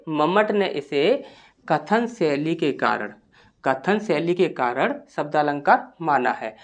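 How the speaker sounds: slow model answer. Shown as a demonstration. Teacher gives model answer to remember.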